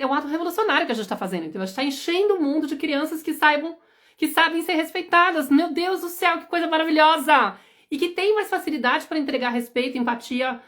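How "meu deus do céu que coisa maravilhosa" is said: excited exclaim. Real, not acted. Entusiasmo com o ato revolucionário.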